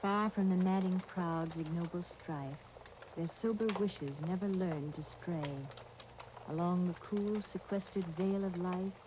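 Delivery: measured, even-toned verse recital; poem recitation. Acted.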